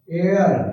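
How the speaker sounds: "एयर" like the word air, no H; silent H. Shown as a demonstration. Teacher demonstrating heir to students, H left silent. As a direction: say heir as "एयर", starting on the vowel. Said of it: "एच silent है".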